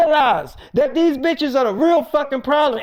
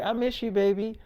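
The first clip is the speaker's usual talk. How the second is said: much softer, low flirty murmur; 3 semitones lower, 9 dB quieter than usual. Retold or imitated. Erica to David on the phone, soft flirty murmur. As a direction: coo it down the phone.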